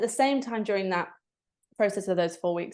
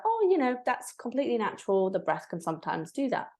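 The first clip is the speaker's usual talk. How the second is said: higher, light reassuring teacher voice; a hint of a gentle teacher; soothing teacher; 4 semitones higher than usual. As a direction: reassure a crying student lightly. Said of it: "she was like".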